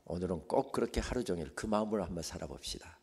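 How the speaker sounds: usual speaking voice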